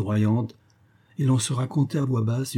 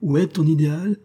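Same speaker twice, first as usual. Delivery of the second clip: mocking taunt; 6 semitones higher, 4 dB louder than usual. Professor taunts Hermann.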